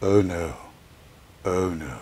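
a hint of a posh lady's dismay; mock posh voice. Daughter imitating mum's new posh oh no. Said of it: "It wasn't posh".

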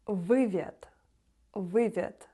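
вивід with a w-like ł, said slowly; Polish ł sound. Shown as a demonstration. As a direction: sound вивід as wywód, ł like English w. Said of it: "не тверду літеру В, а В".

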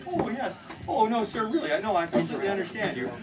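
mock-earnest sympathy to a patient; lightly acted professional deference; respectful reassurance. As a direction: humour the patient with polite understanding. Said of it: "I am respectful".

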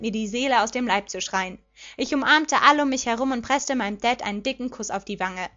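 plain reading voice

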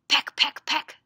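short, loud pecking words; hen's pecking. Acted. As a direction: peck out each word sharply. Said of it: "help me say what she says".

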